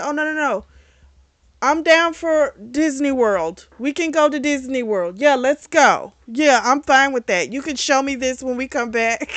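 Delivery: loud, high-pitched imitation of a gung-ho mom; eager acceptance. Mom eagerly accepts Disney trip.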